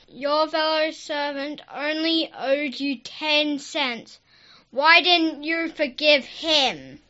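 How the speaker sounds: very high, slow scolding; king's angry rebuke. A narrator's reading. Angry king rebukes unforgiving servant, high drawn-out scolding. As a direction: scold slowly in a high king voice, no real yell. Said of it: "The king yelled".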